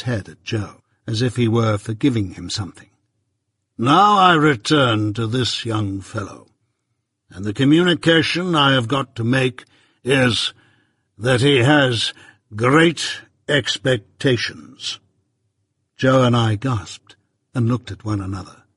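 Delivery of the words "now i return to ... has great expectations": measured, stern lawyer, lightly voiced; Jaggers. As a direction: lay it down slow and firm.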